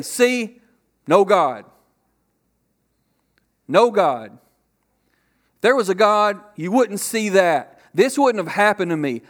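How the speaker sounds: loud, insistent mock argument; accusing complaint. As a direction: argue it as an aggrieved skeptic. Acting out an atheist's complaint against God.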